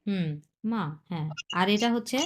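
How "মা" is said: brief fourth-tone 'মা'. Shown as a demonstration. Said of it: "fourth tone". ('মা' চতুর্থ টোনে, ছোট করে)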